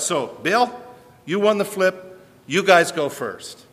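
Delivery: a hint of a bold prophet calling out his rivals; Elijah challenging. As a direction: throw down the dare to the prophets of Baal. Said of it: "and Elijah's saying".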